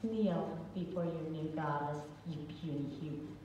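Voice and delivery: haughty villain goddess proclamation; booming arrogant alien overlord. Acted. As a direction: declare it like a conquering goddess. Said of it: "you can say whatever you want".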